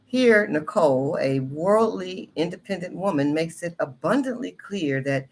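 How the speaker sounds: expressive reading voice, lifted in pitch; monologue book read aloud. Acted. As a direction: read it out with deliberate, rising-and-falling emphasis. Reads monologue introduction aloud.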